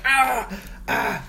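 acted "ah" of pain; re-enacted agony groans; pained cramp noise. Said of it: "making all this noise".

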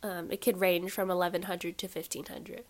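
blocked nose, stuffy voice. Real, not acted. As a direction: talk through a stuffy nose. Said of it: "I'm, like, stuffy".

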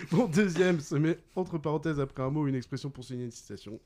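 quick, continuous rereading; brisk recap. Real, not acted. Quizmaster repeats the second clue to players, briskly. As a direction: rattle through the clue in one go.

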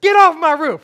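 high, loud homeowner's yell; angry scream. Acted. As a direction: scream at intruders from below. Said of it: "screaming louder and louder and louder".

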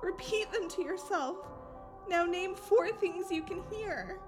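soft, calming guidance; hushed voice with measured pauses; gentle grounding. Acted. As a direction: talk a friend down quietly. Friend talks Kai through grounding.

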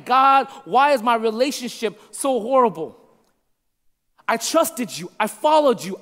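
anguished plea, mildly acted; insistent, pleading complaint in a preacher's voice; crying out to God. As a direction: cry out to God, demanding to know why. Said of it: "you cry out to God".

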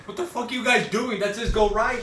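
high, loud, laughing mock yell; laughing imitation. Laughing while imitating Zach yelling from his car. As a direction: crack up while doing his outraged voice.

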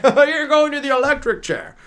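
high, cheerful death sentence; chirpy judge sentencing. Pretend.

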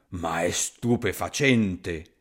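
low, slow monster voice full of wonder; a big beast impressed despite itself; amazed monster. Acted. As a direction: gruffalo marvelling at the fleeing snake, low and slow. Gruffalo amazed.

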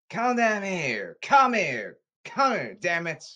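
high, worked-up shouted demand; high, exasperated call; emotional summons. Real, not acted. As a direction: demand they come over, pitched high and insistent. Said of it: "I'm gonna get very emotional here".

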